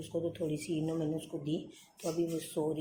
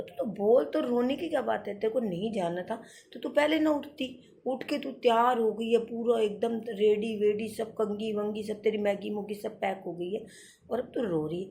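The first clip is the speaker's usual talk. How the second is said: scolding; 3 semitones higher, 3 dB louder than usual. Retold or imitated. Mother scolding crying daughter.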